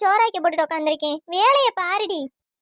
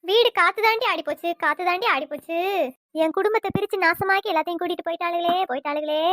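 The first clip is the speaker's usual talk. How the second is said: theatrical dirge-like lament; keen over it, repeating like a mourner; mourning wail. Acted. Mother lamenting her broken-up household to her daughter, mourning wail. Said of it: "ஒப்பாரி வச்சுட்டு இருந்தேன்னு".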